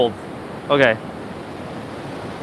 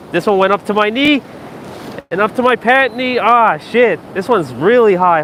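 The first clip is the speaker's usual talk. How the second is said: higher, agitated at the rising wave; in ice cold water; 5 semitones higher than usual. Real, not acted. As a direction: yelp as cold water climbs. Wave soaking pants, cold water.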